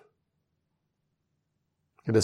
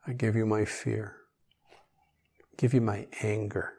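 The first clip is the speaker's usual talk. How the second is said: quiet prayer; 5 dB quieter than usual. Shown as a demonstration. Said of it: "this fixed statement that I'm gonna read to you".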